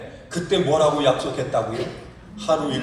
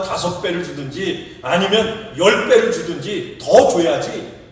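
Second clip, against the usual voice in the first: louder insistent complaint, slowing on the last words; grumbling demand; 4 dB louder than usual. Retold or imitated. Worker keeps complaining to master, insistent. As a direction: press the master for more, stretching it out. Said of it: "끈질기게 원망을 하면서 따지는".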